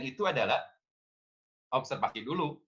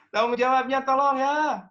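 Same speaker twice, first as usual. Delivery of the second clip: high, loud mock scold; scolding parent; 10 semitones higher, 6 dB louder than usual. Parent demanding the child take responsibility, high and loud.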